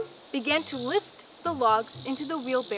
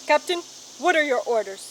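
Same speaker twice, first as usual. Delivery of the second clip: soldierly report; 4 dB louder than usual. Acted. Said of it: "standing stiffly at attention and saluting".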